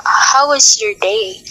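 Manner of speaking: slow question rising on day; gently asked, ending up on day; rising question tune. Shown as a demonstration. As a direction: lift the pitch on day, slowly. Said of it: "you are raising your pitch in the last word".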